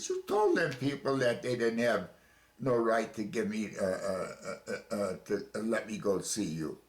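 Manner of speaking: heated complaint thrown at the captain; tripping over words while hollering; angry hollering. Retold or imitated. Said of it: "I was actually hollering".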